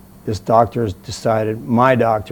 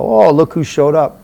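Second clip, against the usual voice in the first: louder, higher sarcastic-sounding greeting; pissed-off retort; 5 semitones higher, 7 dB louder than usual. Retold or imitated. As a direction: retell it as an annoyed jab. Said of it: "you were seriously pissed off".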